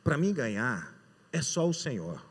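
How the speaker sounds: low, soft inward prayer; silent prayer. Retold or imitated. Praying silently to God as the last draw is made, softly. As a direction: pray it under your breath to the Lord. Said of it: "e eu em espírito eu falei".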